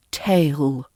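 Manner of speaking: tail ending on a dark, back L. Shown as a demonstration. Teacher gives another pair, tail with a dark L. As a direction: let tail fall into a deep back L. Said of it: "to a dark sound".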